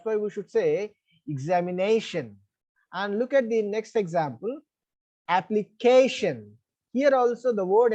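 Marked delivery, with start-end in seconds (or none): 1.3-2.4 examination stressed on the second-last syllable; examination, weight on "na" before the final "tion". Shown as a demonstration. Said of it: "second syllable from the last should be stressed". 5.3-6.5 application drawn out slowly on the CA; application, slow, with weight on "ca"; stress on CA. Shown as a demonstration. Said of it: "second syllable from the back is".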